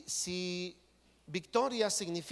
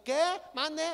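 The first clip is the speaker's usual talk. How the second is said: louder, higher call of someone who can't hear; shouted what; 11 semitones higher, 5 dB louder than usual. Retold or imitated. Someone wearing headphones calling back loudly, a mock shout.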